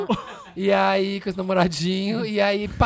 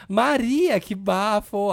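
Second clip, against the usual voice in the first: campy drag queen; 3 semitones higher, much slower than usual. Retold or imitated. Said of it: "fazendo uma bichona maravilhosa".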